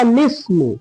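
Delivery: "लिस्मु" with laam run straight into seen, "lis-mu"; joined pronunciation. Shown as a demonstration. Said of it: "तो क्या हो जाएगा".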